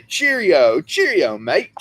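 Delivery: loud mock English accent. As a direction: call it out like a caricatured Brit. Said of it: "that's Canadian. Well, they".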